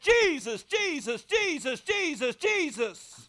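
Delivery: high, loud repeated calls; scared pastor calling on Jesus, shouting; crying out Jesus. Retold or imitated.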